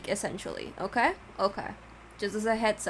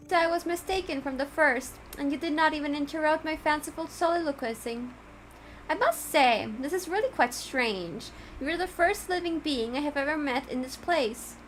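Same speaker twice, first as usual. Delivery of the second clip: the courteous cat, higher and startled; surprised cat; 6 semitones higher than usual. Acted. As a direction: let the grand host sound genuinely taken aback. Reads the Judge's dialogue.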